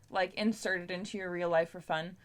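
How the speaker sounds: usual speaking voice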